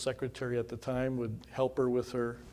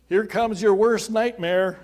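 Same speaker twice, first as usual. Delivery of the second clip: slow, loud, high mock doom; mock ominous warning; 8 semitones higher, 10 dB louder, slower than usual. Pastor retelling Jeff's teasing warning, loud and slow. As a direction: announce it like a playful threat.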